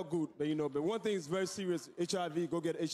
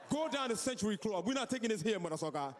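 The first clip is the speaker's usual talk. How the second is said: shouting cop; 4 semitones higher than usual. Acted. Bouncer-cop turning people away.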